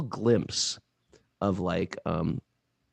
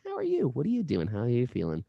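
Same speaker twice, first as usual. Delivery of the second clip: cheery check-in; 3 semitones higher than usual. Retold or imitated. Phone check-in voiced.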